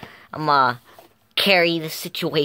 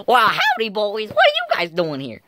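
louder, hammed-up Australian accent; 7 semitones higher, 4 dB louder than usual. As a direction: greet the boys in an overdone Australian accent. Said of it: "I'll have a different accent".

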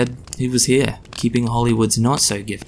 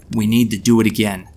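louder, husky Mockney London accent; 4 dB louder than usual. A narrator's reading. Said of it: "in a husky Mockney accent".

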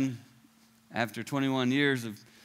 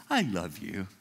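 gentle God voice; 8 semitones lower, 5 dB quieter than usual. Retold or imitated. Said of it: "And God goes".

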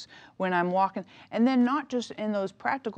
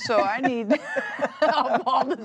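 real amused laughing while speaking; 3 semitones higher, 5 dB louder, slower than usual. Real, not acted. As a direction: talk through laughter, louder and slower. Laughing about needing help with teenagers.

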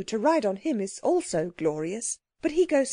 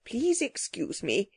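slow, mildly earnest plea; slower than usual. A narrator's reading. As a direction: beg off politely, taking time over it. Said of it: "he said earnestly".

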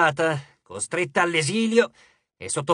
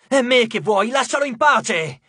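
loud, higher cry to stop; Nico shouting; 5 semitones higher, 5 dB louder than usual. A narrator's reading. Nico shouting at Cupid to stop, loud. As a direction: yell it to make him stop. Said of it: "gridò Nico".

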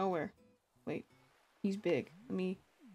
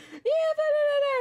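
triumphant cheer; 6 dB louder than usual. Retold or imitated. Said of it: "I was like".

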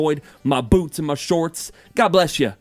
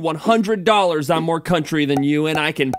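put-on southern accent, lively and boastful; 3 semitones higher than usual. Boasting to viewers about being more country, southern accent. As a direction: talk in a playful southern accent. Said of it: "talking with a southern accent".

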